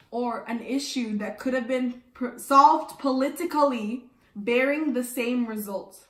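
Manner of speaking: carefully articulated question reading; enunciating. Acted. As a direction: keep every word distinct for the class. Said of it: "enunciate, please".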